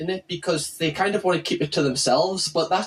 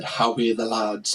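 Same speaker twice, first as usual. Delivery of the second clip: put-on lowered Sunderland Mackem accent; 8 semitones lower than usual. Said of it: "is like Mackem, like Sunderland accent".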